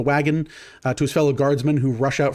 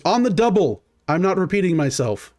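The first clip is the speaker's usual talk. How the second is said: stern captain; 5 semitones higher than usual. Acted. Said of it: "He goes".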